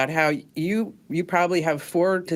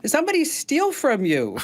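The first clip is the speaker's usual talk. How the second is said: higher, lightly Vietnamese-accented imitation; 8 semitones higher than usual. Dry cleaner blames a thief, in a lightly higher Vietnamese accent. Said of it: "She said".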